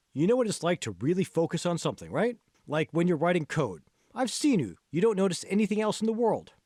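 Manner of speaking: a friendly trainer nudging along, barely acted; lightly voiced coach Hall.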